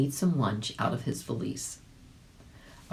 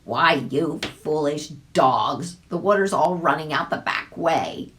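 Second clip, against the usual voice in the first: calling out; 5 dB louder than usual. A narrator's reading. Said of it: "another dog cried out".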